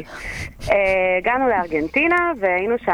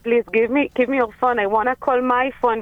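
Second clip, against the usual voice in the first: desperate plea; 4 semitones higher, much slower than usual. Retold or imitated. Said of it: "ואני אומרת להם".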